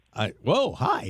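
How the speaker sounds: voice suddenly goes high. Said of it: "your voice got awfully high".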